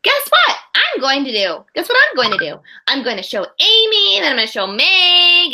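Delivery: put-on child bursting to share; excited child voice. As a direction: chatter like a thrilled preschooler. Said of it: "she's talking to her dad".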